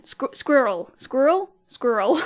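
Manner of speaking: testing "squirrel" in separate tries, one questioning; retry "squirrel" carefully, stumbling into it; self-correcting pronunciation. Real, not acted. Rechecking a word they said wrong, self-correcting pronunciation. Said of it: "I think I said it wrong then".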